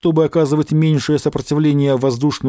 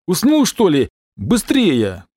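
angry shout; 4 semitones higher, slower than usual. A narrator's reading. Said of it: "раздался сердитый окрик".

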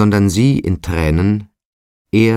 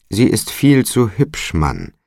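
higher, louder insistence on viel; emphatic repeat; 6 semitones higher, 3 dB louder than usual. A narrator's reading. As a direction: press the warning home, pitched up. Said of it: "wiederholte der Alderman".

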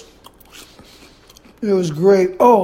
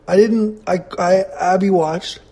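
talking while chewing; words around a bite of food; mouth full. Real, not acted. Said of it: "Sorry, I'm eating again".

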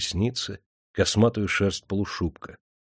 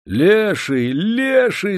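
high, loud cry rising on the repeat; alarmed shout; 11 semitones higher, 5 dB louder, much slower than usual. A narrator's reading. Dozing major sees a shaggy figure, shouting out. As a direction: cry out in fright from a doze. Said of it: "закричал в дрёме майор".

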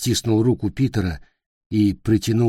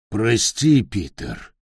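put-on old troll; slower than usual. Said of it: "сказал старый тролль".

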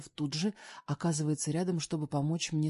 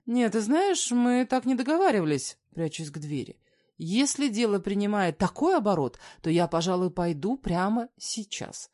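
higher and louder, heated; woman retreating from angry man, raised voice; raised protest; 5 semitones higher, 6 dB louder than usual. Acted. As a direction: threaten to walk out. Acted quarrel, backing to the door.

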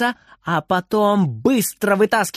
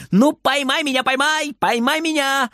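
put-on high, singsong taunting boy; teasing boy; 9 semitones higher than usual. A narrator's reading. Little Frieder taunts granny to catch him, high teasing. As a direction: dare her to catch you.

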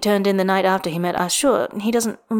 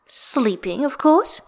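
sniffy; 5 semitones higher, much slower than usual. Acted. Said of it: "she sniffs".

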